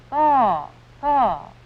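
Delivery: harsh cawing like a crow; crow caw imitation. Shown as a demonstration. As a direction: caw loudly and high like a crow. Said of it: "The crow makes a very harsh cry. It has a caw".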